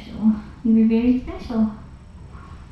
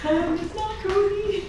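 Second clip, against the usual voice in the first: higher, mock cat voice; voicing the cat; 9 semitones higher than usual. Carer voicing the cat's complaint, higher and mock-grumpy. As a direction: speak for the cat, mildly grumpy. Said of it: "She's like".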